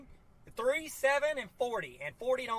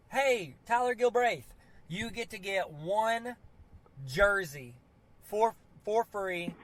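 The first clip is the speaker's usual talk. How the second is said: slow, drawn-out prize announcement; mock raffle announcer; slower than usual. Telling his co-host he won a jersey, slow mock announcer. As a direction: announce the winner like a game show.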